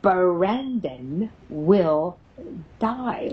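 very slow, drawn-out taunt; sarcastic. Retold or imitated. Spirit taunts the mother when challenged, very slow and sarcastic. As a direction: stretch each word out sarcastically. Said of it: "The sarcastic little S O B says".

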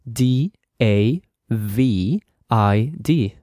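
each letter slow and separate, with a pause between; 또박또박 spell each letter slowly. Shown as a demonstration. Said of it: "I am going to spell it".

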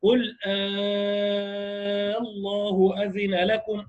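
"آه الله" drawn out with a long elongated a; long madd on آلله. Shown as a demonstration. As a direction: recite "آه الله" with full ibdal and a long vowel. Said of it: "لنا فيها الإبدال فقط". (مد طويل في "آلله")

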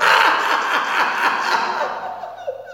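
shrill, manic forced cackle, very high; forced clown laugh. Acted. Grieving clown forcing a crazed laugh in the ring. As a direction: laugh madly through the pain.

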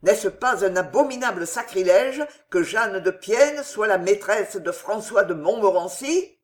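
crying out. Acted. Henri shouting the shameful truth at the old father. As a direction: hurl the accusation at him. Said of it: "que je viens te crier".

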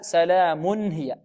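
سلام هي slow, n clearly sounded; measured recitation; tanween as nun. Shown as a demonstration. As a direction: give the n of سلام full time. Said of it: "نقول هنا".

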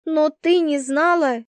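high, heated question; flaring up. A narrator's reading. Roommate flaring up at Vasya, heated disbelief. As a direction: she bursts out in disbelief. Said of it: "вспыхнула она".

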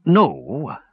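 slow, reluctant answer; slowly. A narrator's reading. Dwarf reluctantly answers Palin, speaking slowly. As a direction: draw the word out hesitantly. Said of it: "said Dugan slowly".

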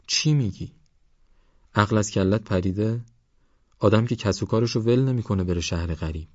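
lightly voiced older companion scolding; mildly incredulous, then earnest warning; admonishing Esmail.

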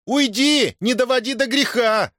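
Дашутка interrupting the merchant; cutting him off. Acted. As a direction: cut him short and warn him off. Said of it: "оборвала его Дашутка".

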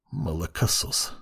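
quiet muttered insult through the teeth; barely audible, through teeth. A narrator's reading. Sid insulting the young judge behind his back, barely audible. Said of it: "едва слышно процедил сквозь зубы".

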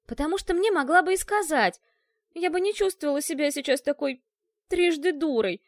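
громче и выше, с горечью; выкрикни упрёк обманутой подруги; обиженный крик. Acted. Ашка упрекает подругу. (обиженный упрёк подруге)

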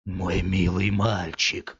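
slow, self-pitying plea; pitiful voice. Acted. Man suddenly pleading with the boy, slow and pitiful. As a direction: drag it out pitifully. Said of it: "сказал вдруг мужчина жалостливым голосом".

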